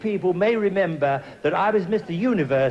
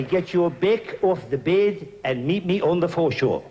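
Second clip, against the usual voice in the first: lightly put-on South African accent. Host greeting South African friends as Gary Player taught him, mock South African accent. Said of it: "I like to say it in this way".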